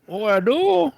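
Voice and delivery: high mock Asian accent; thick Asian accent. Agent admitting he has an accent, high mock Asian accent. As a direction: imitate the agent's accent, pitched well up. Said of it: "his accent was so thick".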